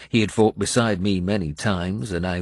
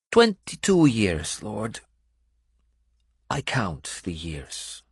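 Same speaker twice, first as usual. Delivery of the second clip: Benedetta's voice; 3 semitones higher, slower than usual. Acted. Benedetta interrupts Uhtred.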